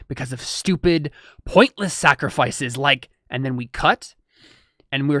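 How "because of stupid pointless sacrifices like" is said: slow, scornful villain voice; slow sneering villain voice; contemptuous villain. Acted. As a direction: sneer at the hero's sacrifice.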